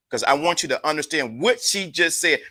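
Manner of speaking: ordinary talk, nothing marked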